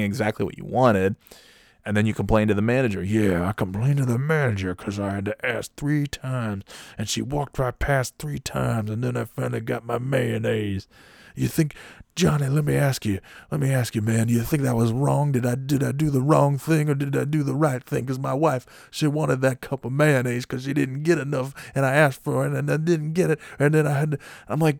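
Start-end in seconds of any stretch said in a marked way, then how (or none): 3.0-10.9 put-on voice, justifying with wounded indignation; imitating a pissed-off customer. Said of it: "he's really pissed about this mayonnaise". 11.4-24.2 higher-pitched, worked-up mock rant; imitating an irate man. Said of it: "he's starting to yell at me".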